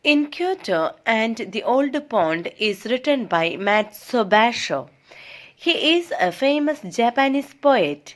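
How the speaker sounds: slow, measured read-aloud; textbook reading. Acted. Teacher reads English study notes to students, measured reading. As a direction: read it out slowly, phrase by phrase.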